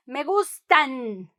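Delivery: gustan slow and pressed, the final N clear; stress on gustan. Shown as a demonstration. Teacher stressing the plural ending, slow emphasis. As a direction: lean on gustan, slowly. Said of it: "Con énfasis".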